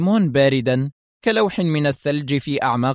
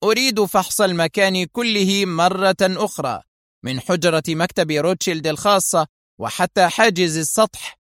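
commanding; 5 semitones higher than usual. Acted. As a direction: give orders that allow no reply. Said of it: "بلهجة آمرة".

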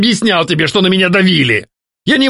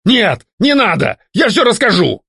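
ghost begging; 12 semitones higher than usual. A narrator's reading. Ghost begging not to be banished, frightened and higher. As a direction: plead not to be dispelled.

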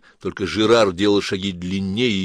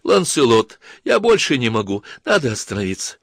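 plaintive. Acted. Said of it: "жалобно сказала".

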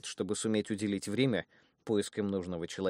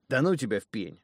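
a mild snap, a bit louder; snapping back; 5 dB louder than usual. Acted. Annoyed thug snaps back at his brother. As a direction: brush him off grumpily. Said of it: "огрызнулся темноволосый грабитель".

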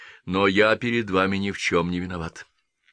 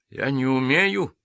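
higher, slow timid murmur; timid babble; 6 semitones higher, slower than usual. A narrator's reading. The doctor refusing to count, timid and shaking. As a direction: bleat it out helplessly. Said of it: "тем же тоном, что давеча".

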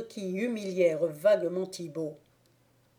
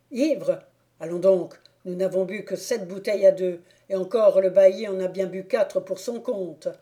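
put-on louder, brisk drunken protest; indignant drunk; 4 dB louder than usual. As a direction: deny it, rattling on. Thibault denies being drunk.

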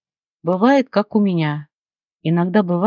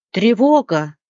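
louder parrot alarm call; alarmed cry; 3 semitones higher, 4 dB louder, slower than usual. Acted. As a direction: sound the alarm. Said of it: "закричал попугай". (попугай поднимает тревогу, громко)

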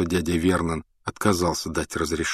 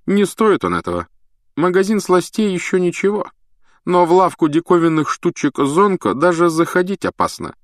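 high, earnest know-it-all voice; serious prefect; 11 semitones higher, 4 dB louder than usual. Acted. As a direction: lecture them with full seriousness. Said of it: "сказал он вполне серьёзно".

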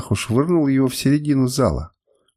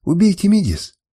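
high wailing cry, a touch louder; wailing plea; 7 semitones higher, 3 dB louder than usual. Acted. Мидис on her knees between the men, wailing high. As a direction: beg to die instead of him. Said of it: "причитала она".

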